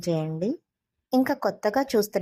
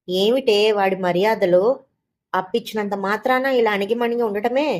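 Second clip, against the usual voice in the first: louder scolding mother-in-law; shouting; 2 semitones higher, 4 dB louder than usual. Retold or imitated. Mother-in-law shouts at her daughter-in-law over the lender, loud scolding. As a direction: yell at the daughter-in-law for being too polite. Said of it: "అరిచారు నన్ను".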